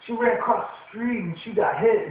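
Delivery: imitating a jock's your-mom joke. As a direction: brag like a dumb jock. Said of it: "your mama" jokes".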